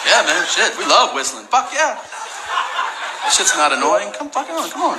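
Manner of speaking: overdreven, hoog en uitgelaten; sarcastic mock enthusiasm. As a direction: juicht nep-enthousiast, steeds hoger tot een schreeuw.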